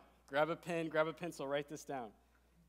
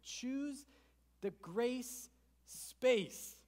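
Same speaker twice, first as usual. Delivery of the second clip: higher, very slow, stretched grace space; emphatic slogan; 7 semitones higher, 3 dB louder, much slower than usual. Shown as a demonstration. Pastor urging the congregation, high and slow. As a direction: sing out the catchphrase. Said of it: "I have a challenge for you".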